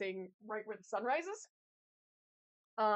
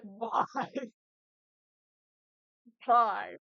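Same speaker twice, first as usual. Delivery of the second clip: exasperated; 8 dB louder than usual. Retold or imitated. Quoting own frustration.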